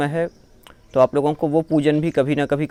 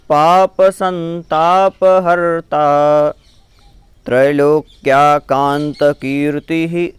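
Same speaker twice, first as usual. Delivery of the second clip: measured, syllable by syllable chant-like reading; slow Sanskrit recitation; 4 dB louder, slower than usual. Shown as a demonstration. Teacher reciting puja text for students, slow and careful. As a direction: recite each word clearly for the learners. Full verse recited together.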